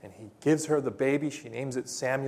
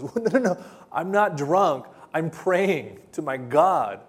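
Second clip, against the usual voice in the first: higher, lightly acted flustered denial; earnest protest; 4 semitones higher, 4 dB louder than usual. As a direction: protest as a wrongly accused woman. Hannah protests to priest's accusation.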